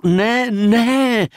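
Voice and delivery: passionate cry. A narrator's reading. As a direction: cry out to stop him. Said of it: "zvolal jsem vášnivě". (vášnivé zvolání, výš a hlasitěji)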